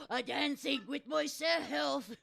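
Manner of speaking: slow, loud joyful shout; shouted delight. Acted. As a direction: shout it with glee. Repeats as a shout.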